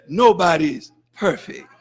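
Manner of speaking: amused jab at the excuse-maker; mock excuse. Preacher mocking the church's favourite excuse, laughing. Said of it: "See, you say".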